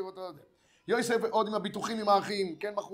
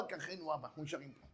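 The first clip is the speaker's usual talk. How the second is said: soft plea; 5 semitones lower, 13 dB quieter than usual. Acted. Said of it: "פשטו ידיהם ואמרו".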